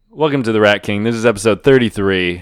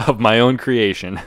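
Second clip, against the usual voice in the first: Marc Maron impression; 3 semitones higher than usual. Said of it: "I'm still Mark Maron".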